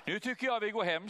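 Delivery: put-on a satisfied old woman calling it done; old lady.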